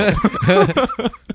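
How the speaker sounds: sudden high laugh; high burst of laughter. Real, not acted. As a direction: break into a laugh. Laughing at teasing.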